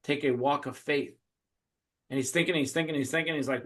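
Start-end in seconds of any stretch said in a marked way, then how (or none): 0.0-1.1 hushed, softer reading; solemn written instruction. Retold or imitated. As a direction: read the clue softly and gravely. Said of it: "it says in there, it says".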